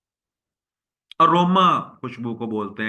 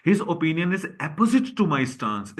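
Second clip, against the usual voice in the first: slow example sentence; 2 semitones higher, much slower than usual. Shown as a demonstration. Teacher gives example sentence slowly.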